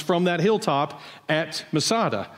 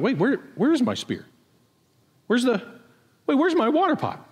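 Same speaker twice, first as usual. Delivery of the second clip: higher and higher, suddenly missing the spear; mock panic, looking around; confused search; 8 semitones higher than usual. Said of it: "looking around and going like".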